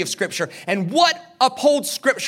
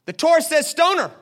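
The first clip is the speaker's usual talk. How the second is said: Jesus voiced; 9 semitones higher than usual. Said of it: "He says".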